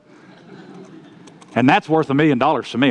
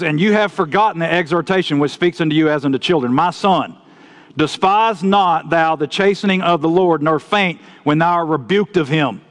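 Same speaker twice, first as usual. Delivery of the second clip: measured, solemn Bible reading; scripture reading. Acted. Preacher reading Hebrews to his congregation, solemn scripture reading. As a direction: read the verses aloud to the congregation.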